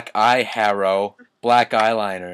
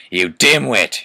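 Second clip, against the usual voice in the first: mild mock angry shout; 7 dB louder than usual. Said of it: "Snake began to shoot angrily".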